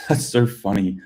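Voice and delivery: imitating an amused listener's laugh; mimicked amusement. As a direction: laugh along as a tickled audience would. Mimics audience amused by accent.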